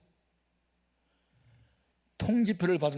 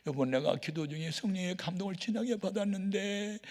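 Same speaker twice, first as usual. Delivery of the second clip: tearful pleading; 4 semitones higher than usual. Retold or imitated. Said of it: "그러면서 우는 거예요".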